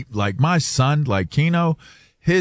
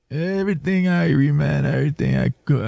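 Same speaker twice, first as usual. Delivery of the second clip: higher Jamaican patois imitation; Jamaican dialect; 4 semitones higher than usual. Acting out small talk with a pilot, imitated Jamaican accent. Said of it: "speak Jamaican".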